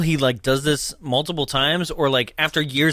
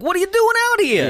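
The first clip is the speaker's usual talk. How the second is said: high, quick mock demand; incredulous Joe; 3 dB louder, faster than usual. Joe questions Santa out here, mock incredulous. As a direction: blurt it out in a put-on incredulous voice.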